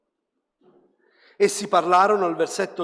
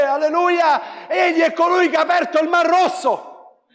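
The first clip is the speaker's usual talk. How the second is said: higher, louder, fervent preacher voice; impassioned sermon delivery, higher and louder; full-force preaching; 10 semitones higher, 7 dB louder than usual. Acted. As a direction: preach it out to the congregation.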